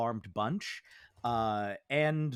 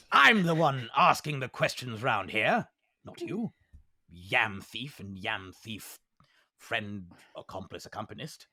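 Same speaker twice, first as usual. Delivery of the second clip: bossy leader; 3 semitones lower, 4 dB louder than usual. Acted. Lion-skull leader scolding the prisoners, then fumbling. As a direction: assert control, then fumble the words. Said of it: "the cat skull is like".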